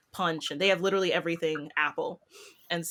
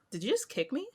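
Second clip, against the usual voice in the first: mock indignation; 7 semitones higher than usual. Child just kicked her.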